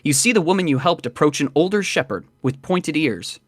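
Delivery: measured game master narration; scene-setting narration. A narrator's reading. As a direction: read it as a story told to the player.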